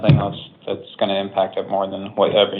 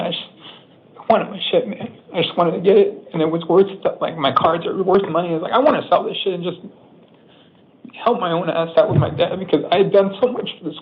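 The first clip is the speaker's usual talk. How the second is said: real upset pleading, voice raised higher; distressed defendant pleading with the judge, voice pushed higher; 6 semitones higher than usual. Real, not acted. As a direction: pour it out, near tears and fed up. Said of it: "I can understand that you're very upset".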